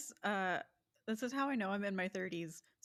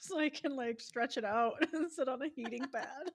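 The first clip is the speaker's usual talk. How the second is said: laughing while quoting; 4 semitones higher, 4 dB louder than usual. Retold or imitated. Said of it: "Then I was like".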